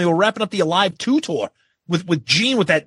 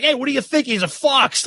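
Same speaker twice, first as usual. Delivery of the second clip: Ace voice; 9 semitones higher than usual. Retold or imitated. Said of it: "He's like".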